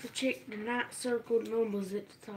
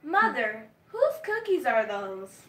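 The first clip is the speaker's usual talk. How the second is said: telemarketer voice; 7 dB louder, slower than usual. Shown as a demonstration. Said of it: "telemarketer voice at all times".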